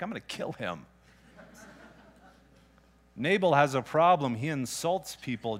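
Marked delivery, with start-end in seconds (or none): 0.0-0.9 low menace. Retold or imitated. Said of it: "and you're like".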